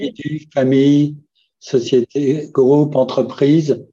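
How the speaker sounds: slow, spelled-out list; speaking slowly. Shown as a demonstration. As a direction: say each word slowly and clearly. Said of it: "je vais parler lentement".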